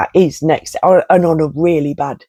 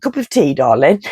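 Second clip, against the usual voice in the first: posh British mock. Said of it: "stiff British upper lip".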